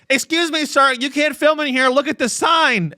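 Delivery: mock polite office receptionist; secretary voice. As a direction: politely shoo him out. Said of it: "secretary quote after laugh".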